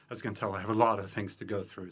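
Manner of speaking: rushing, short of breath; racing through it, breathless. Real, not acted. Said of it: "I'm running out of breath".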